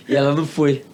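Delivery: bursts out laughing mid-line. Real, not acted. Telling the host she skipped church, laughing. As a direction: laugh through the letdown. Recalling she didn't show up.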